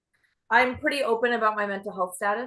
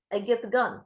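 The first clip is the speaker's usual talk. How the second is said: put-on Ukrainian accent. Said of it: "is Ukrainian, so she has an accent like this".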